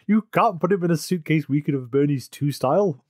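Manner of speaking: lightly acted incredulous objection; Scully explaining. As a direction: imitate someone explaining the obvious. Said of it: "when Scully has to explain".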